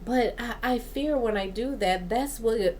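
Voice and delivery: restarting phrases mid-thought; real, hurried verbal stumble; stumbling over words. Real, not acted. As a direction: trip over the words and begin the phrase afresh. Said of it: "Gosh, I'm really stuttering today".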